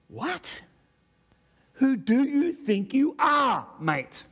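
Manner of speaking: slow, loud challenge from the opponents; slow, loud mock challenge with an Aussie edge; mock angry shout. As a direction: bellow it like an offended local. Voicing hostile opponents.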